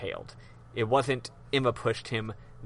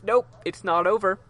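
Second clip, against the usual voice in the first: higher, cocky retold refusal; defiant objection; 6 semitones higher, 4 dB louder than usual. Wright telling an upset courtroom it continues, mock defiant. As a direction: cut them off with breezy defiance.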